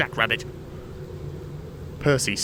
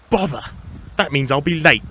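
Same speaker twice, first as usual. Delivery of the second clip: annoyed; 4 semitones higher, 5 dB louder than usual. Acted. Thomas annoyed at being delayed.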